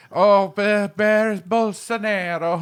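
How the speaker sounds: high, slow mock Italian; fake Italian. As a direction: bluff some gibberish Italian.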